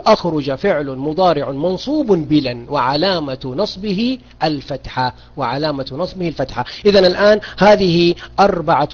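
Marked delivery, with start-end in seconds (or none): 0.1-5.1 slow, spaced-out dictation pace. Shown as a demonstration. Teacher dictating the grammar parsing to students, slowly. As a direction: spell it out slowly for note-taking. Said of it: "اكتبي بارك الله فيك".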